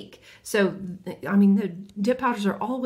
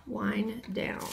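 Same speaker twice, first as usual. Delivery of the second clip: whispered name; 7 dB quieter than usual. Real, not acted. Reading polish name in whisper.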